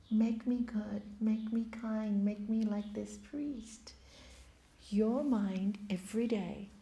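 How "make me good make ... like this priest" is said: soft whisper, slowing down; the prostitute whispering her daily prayer to God. Acted. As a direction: breathe the prayer almost silently.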